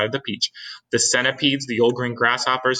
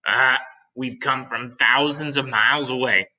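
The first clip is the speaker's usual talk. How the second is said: lightly voiced centipede; 2 semitones higher than usual. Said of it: "cried the centipede, shouting back".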